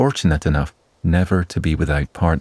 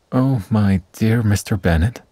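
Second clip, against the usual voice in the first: bright gushing call, pitched up; excited cry; 5 semitones higher than usual. Acted. Wife greets husband, news bursting out, excited cry. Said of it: "Missus Bennet cried".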